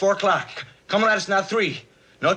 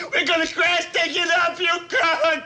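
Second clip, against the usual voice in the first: crying it out in panic; panic shout; 2 semitones higher than usual. Acted. Airman yelling to the pilot that they will crash, panicked shout. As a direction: yell the warning in fear.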